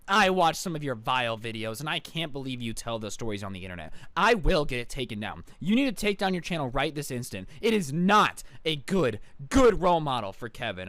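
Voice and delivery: mock indignant mom, words punched out; retold yelling. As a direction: scold like an outraged mother, mildly hammed-up. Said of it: "just starts yelling".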